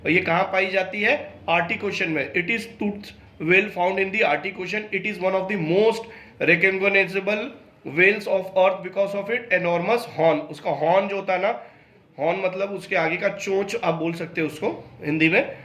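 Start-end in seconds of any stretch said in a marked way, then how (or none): 2.3-10.4 slow, careful textbook reading; reading aloud. Acted. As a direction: read each English word out slowly for the class. Reads English textbook passage aloud. (धीमी, सावधान पाठ-वाचन)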